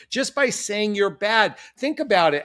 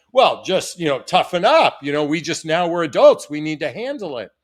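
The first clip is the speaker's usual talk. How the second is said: dismissive toughen-up quote; 4 dB louder than usual. Retold or imitated. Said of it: "some people are just saying".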